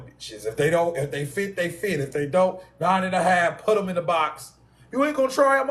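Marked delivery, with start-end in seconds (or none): 4.9-5.7 higher mock voice of someone asking; a clerk puzzled he won't try them on, asking higher; quoted shoe-store question. Someone asks while he buys shoes.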